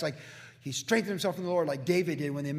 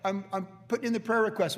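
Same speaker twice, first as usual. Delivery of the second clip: hammed-up lament, voice raised; mock complaining prayer; 7 semitones higher than usual. Preacher voicing Jacob's imagined complaint to the Lord, mock whine. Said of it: "Jacob cried to the Lord".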